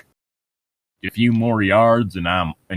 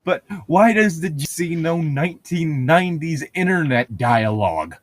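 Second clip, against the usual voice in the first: incredulous; 7 semitones higher than usual. Real, not acted. Incredulous questioning.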